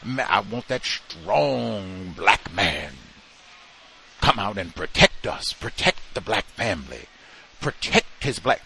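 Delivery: slow, put-on pleading voice; lightly voiced mock plea; mocking what people say. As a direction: parody the call for a protector, slowly. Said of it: "people say".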